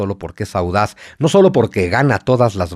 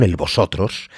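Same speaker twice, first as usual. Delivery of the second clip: a hint of Castilian Spanish accent on vosotros; lightly imitated Castilian accent; 5 semitones lower than usual. Shown as a demonstration. Host lightly demoing a Castilian accent to the guest. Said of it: "con este acento que estoy tratando de malamente de imitar".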